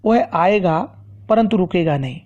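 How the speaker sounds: short pause after आएगा, before परंतु; slight comma pause. Shown as a demonstration. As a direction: break briefly between आएगा and परंतु. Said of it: "इसमें भी थोड़ा सा रुकावट है". (आएगा के बाद थोड़ा सा ठहराव)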